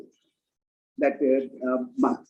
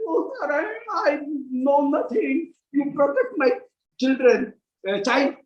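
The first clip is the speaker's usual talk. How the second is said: begging, trembling; 4 semitones higher than usual. Retold or imitated. Yashoda begging Narayan to protect her child, trembling plea. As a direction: beg Narayan with a quavering tone. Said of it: "with a very, uh, trembling sound".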